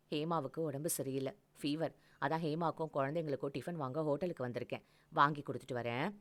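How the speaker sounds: a lightly voiced man soothing his partner; low gentle explanation; calm man explaining. Male lover voiced, explaining.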